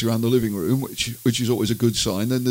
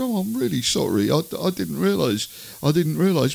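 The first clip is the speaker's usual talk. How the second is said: apologetic wife; 4 semitones higher than usual. Retold or imitated. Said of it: "came back out and said".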